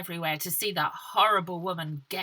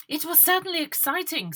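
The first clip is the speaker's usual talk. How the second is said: put-on prim girl voice; 10 semitones higher, 4 dB louder than usual. Sophie's quote.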